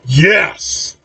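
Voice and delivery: mildly enthusiastic, drawn-out cheer; understated keen agreement. A narrator's reading. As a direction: say it with a touch of eagerness. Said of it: "Both cousins enthusiastically say".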